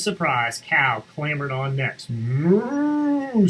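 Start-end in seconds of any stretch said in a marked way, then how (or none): 2.1-3.5 a long high moo. Acted. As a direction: moo like a cartoon cow. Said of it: "said the cow".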